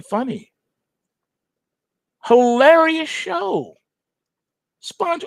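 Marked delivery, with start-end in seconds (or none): 2.2-5.2 hilarious show, squeaked high and slow; hilarious show sung out high and slow; high drawn out. Real, not acted. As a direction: stretch it way up high in delight. Gushing over SpongeBob.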